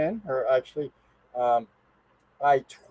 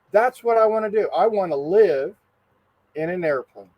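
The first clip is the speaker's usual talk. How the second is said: put-on excited child; 3 semitones higher than usual. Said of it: "I told my dad".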